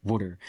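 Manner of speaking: "water" said as "wudder"; imitated mispronunciation. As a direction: echo "water" as a Philly-style "wudder". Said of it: "learned the word wrong".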